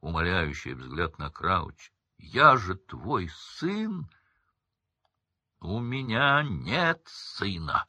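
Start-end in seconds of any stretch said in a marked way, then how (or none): 2.2-4.1 higher, slow beg; pleading cry. A narrator's reading. Son pleading with his father, slow and higher. 5.6-7.9 slow, hard rejection; cold denial. A narrator's reading. Crouch disowning his son, cold and slow. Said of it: "Голос Крауча перекрыл все".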